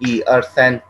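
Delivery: ई अर सैन, each number clipped apart; counting in Chinese; Chinese yi er san. Shown as a demonstration. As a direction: say ई, अर, सैन as three short counted beats. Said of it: "Monday के लिए हम ई बोलते हैं".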